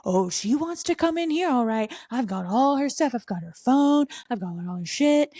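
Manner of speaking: high, sing-song mock scolding; hammed-up angry friend, pitched high; imitated mad friend. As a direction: play the fed-up friend laying down the law. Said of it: "she's terrifying when she's mad".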